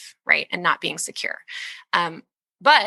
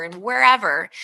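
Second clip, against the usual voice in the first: ordinary talk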